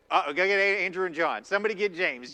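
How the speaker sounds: panicked calling out. Retold or imitated. Teen disciples yelling for Andrew, John and James, panicked shout. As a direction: yell for the others like the sky is falling.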